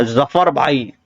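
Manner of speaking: जफर slowly, as "zafar"; nukta sound. Shown as a demonstration. Teacher giving an example name, nukta sound. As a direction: stretch जफर भाई out with a clear z. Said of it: "नुक्ता लगा दिया".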